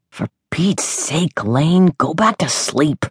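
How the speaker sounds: mild gruff, slow and put out; a touch of annoyed big brother; gruffly. A narrator's reading. Brother sending his sister back to bed, mildly gruff. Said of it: "he said gruffly".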